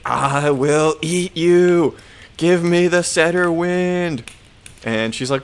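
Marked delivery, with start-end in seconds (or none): 0.0-4.2 loud, drawn-out monster roar, pitched up; badger monster. Monster bursting in on the kids, hammed-up monster bellow. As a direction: bellow it slowly like a storybook monster. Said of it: "the Badger monster. And he's like".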